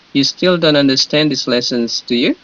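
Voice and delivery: "You still don't understand these lessons" stated evenly, then "do you" rising; question-tag intonation. Shown as a demonstration. Teacher shows students how to read a question tag, rising on "do you". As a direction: lift "do you" at the end like a question. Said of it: "intonasinya seperti ini".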